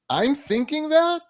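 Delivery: high-pitched incredulous question; disturbed disbelief. Acted. Someone reacting to their own disturbing thoughts, in high disbelief. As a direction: act taken aback, pitch shooting up. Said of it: "so disturbing, you're like".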